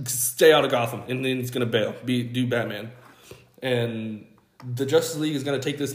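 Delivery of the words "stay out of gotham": a firmer, louder stay out of Gotham; louder clipped threat; stern warning. Retold or imitated. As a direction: lay down the law as Batman. Batman storming off, warning.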